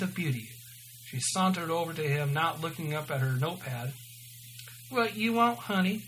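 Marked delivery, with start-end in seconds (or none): 4.9-6.0 higher-pitched attempt at New Jersey waitress; lightly put-on New Jersey accent. A narrator's reading. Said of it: "obvious New Jersey accent".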